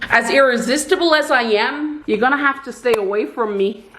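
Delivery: a light Irish accent, teasing; a playful go in Irish lilt. Shown as a demonstration. Teasing her husband in a light Irish accent. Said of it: "let me, let me try my accent".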